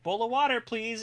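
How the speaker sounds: lightly voiced pet making a request; talking dog role. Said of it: "And I'll be like".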